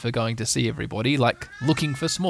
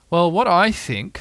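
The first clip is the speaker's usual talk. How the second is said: slow, higher, louder storybook bear; Pooh; 6 semitones higher, 6 dB louder, slower than usual. A narrator's reading. Bear gives Piglet his idea, slow raised character voice. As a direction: voice a pondering bear, raised and unhurried. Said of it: "said Pooh".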